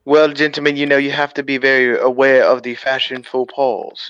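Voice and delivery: lightly voiced comic spy impersonation; Austin Powers. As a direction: put on a mock-British secret agent voice. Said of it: "you did Mike Myers' fucking voiceover".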